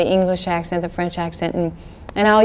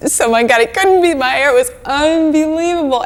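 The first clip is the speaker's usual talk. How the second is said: retold shock; 7 semitones higher, 5 dB louder than usual. Discovering hair dye washing out.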